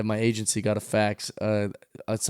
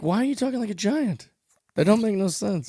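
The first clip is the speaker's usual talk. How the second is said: mocking giant voice; 9 semitones higher than usual. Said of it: "And you're like".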